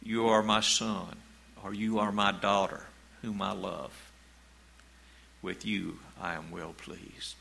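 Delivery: loving parent. Pretend. A parent telling their child they are loved, gently fading. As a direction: speak it like a parent affirming a child.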